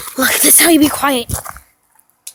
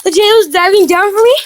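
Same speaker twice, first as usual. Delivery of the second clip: excited; 5 semitones higher than usual. Real, not acted. Excited recap after chase.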